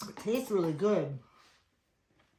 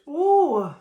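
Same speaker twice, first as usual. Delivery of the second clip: high, loud burning ooh; 11 semitones higher, 16 dB louder than usual. Real, not acted. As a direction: let the heat make you yelp. Asked to recommend spicy noodles.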